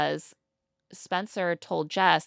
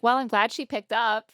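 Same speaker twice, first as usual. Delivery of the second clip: higher, lightly voiced producer; imitated producer; 5 semitones higher, 4 dB louder than usual. Producer reacting to the answered call, lightly imitated. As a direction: lightly put on a producer's relief. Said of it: "And the producer's like".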